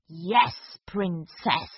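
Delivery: slow, low sly villain; gloating villain. Acted. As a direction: purr it with menace. Magician admits, gloating.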